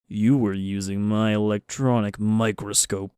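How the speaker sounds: slow, suspicious professor voice; lightly voiced affronted academic; accusing professor. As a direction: draw out the accusation slowly.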